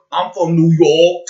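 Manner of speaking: exaggerated New York talk; mock New York accent. Mocking a New Yorker's way of talking, exaggerated New York accent. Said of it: "the way you talk with your New York".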